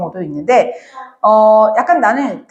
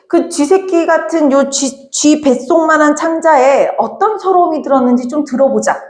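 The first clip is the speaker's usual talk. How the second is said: mocking but curious; 4 semitones higher than usual. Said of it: "이렇게 얘기해".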